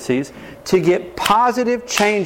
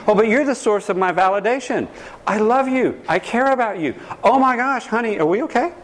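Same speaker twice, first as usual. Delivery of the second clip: higher, pleading, anxious for approval; clingy needy partner; 5 semitones higher than usual. Retold or imitated. Needy partner pleading with spouse for reassurance. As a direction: fuss over them, begging for reassurance.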